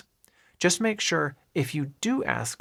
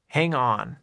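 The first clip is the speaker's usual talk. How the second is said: normal talking voice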